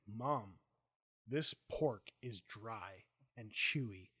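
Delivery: put-on slow, drawn-out complaining kid voice; imitating a whiny kid. Son complaining to mom about dry pork, slow whiny kid voice. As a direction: drag it out like a picky nine-year-old. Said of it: "and he's like".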